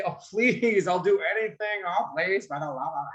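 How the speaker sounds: begging for the sugary cereal; pleading child. Shown as a demonstration. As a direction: plead like a kid who really wants it. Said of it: "You're having a persuasive tone".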